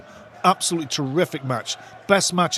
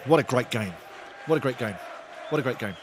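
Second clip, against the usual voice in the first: fading repeat; 4 semitones lower, 6 dB quieter, faster than usual. Real, not acted. Repeats, trailing off each time.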